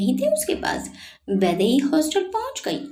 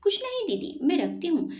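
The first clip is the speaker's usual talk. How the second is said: with difficulty; 7 semitones higher, 6 dB quieter than usual. A narrator's reading. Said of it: "बड़ी मुश्किल से कहा".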